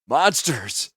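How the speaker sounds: cursing his captors through clenched teeth; angry outburst. A narrator's reading. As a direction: spit the word out in rage. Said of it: "his teeth grinding angrily".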